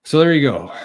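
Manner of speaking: breathless, winded delivery; out of breath. Real, not acted. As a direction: talk while short of breath. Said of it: "I'm out of breath".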